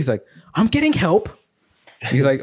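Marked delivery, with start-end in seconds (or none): 0.5-1.3 higher, meek claim; mock caught man. Caught man pleading to the host, much higher. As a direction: say it like a weak excuse.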